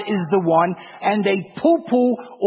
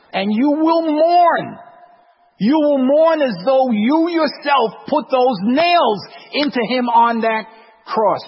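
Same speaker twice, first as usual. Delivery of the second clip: solemn warning; 5 semitones higher, 4 dB louder than usual. Real, not acted. Solemn warning, slow and raised.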